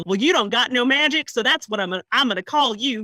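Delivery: a hint of a dumb American taunt; mock dumb American. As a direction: sneer it like a dim-witted local. Mocking a dumb American naming.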